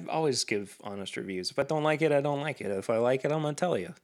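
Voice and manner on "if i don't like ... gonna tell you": lapse into a light New York accent; a touch of New York in the voice. Real, not acted. Host vouching for his honest reviews, slipping into New York accent. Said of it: "I went New York there".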